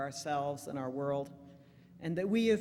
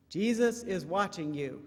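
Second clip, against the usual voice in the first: parrot; 3 semitones higher, 6 dB louder than usual. Acted. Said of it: "says the parrot".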